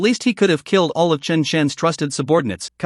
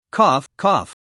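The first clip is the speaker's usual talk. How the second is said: two short rough coughs; dry coughing. A narrator's reading. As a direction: cough it out after the dust. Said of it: "crawled out of the armored vehicle while coughing".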